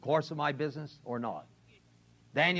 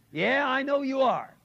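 accusing waitress; 8 semitones higher, 4 dB louder than usual. Retold or imitated.

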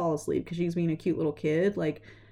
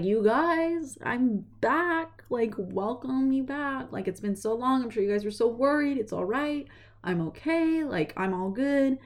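much higher, bright announcing voice; excited return; 6 semitones higher than usual. Retold or imitated. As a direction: burst in thrilled to be back. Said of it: "and she's like".

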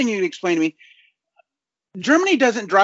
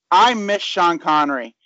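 slow, deadpan mock confession; straight face. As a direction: keep a straight face while joking. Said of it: "I'm gonna say this with a straight face".

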